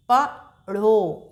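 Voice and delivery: पढ़ा stretched very slowly; drawn-out syllable. Shown as a demonstration. Teacher sounds out पढ़ा slowly for children. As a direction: hold पढ़ा long for the class. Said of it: "तो इसको कैसे पढ़ेंगे?".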